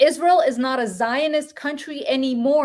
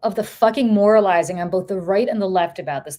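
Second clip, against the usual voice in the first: real exasperation, stumbling then emphatic; worked up and sick of it; emotional, fed up; 4 semitones lower than usual. Real, not acted. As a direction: let the frustration spill out. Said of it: "I'm getting emotional because I'm so sick".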